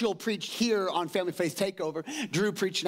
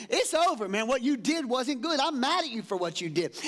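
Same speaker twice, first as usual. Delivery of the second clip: lightly voiced angry queen, pitched up; a hint of a scorned queen texting a threat; Jezebel's angry text, lightly acted; mock Jezebel; 5 semitones higher than usual. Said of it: "she sends a text message to Elijah saying".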